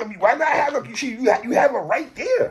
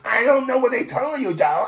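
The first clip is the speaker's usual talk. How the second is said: mocking put-on funny voice. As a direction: mimic an annoying funny way of talking. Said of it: "the friggin' funny voice".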